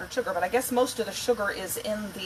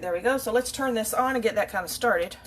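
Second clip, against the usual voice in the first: normal talking voice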